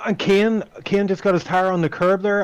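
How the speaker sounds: excited play-by-play. Real, not acted. Calling a sudden mistake live.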